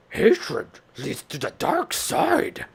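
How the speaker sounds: high, slow put-on creature voice; Star Wars character voice. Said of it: "I saw Star Wars".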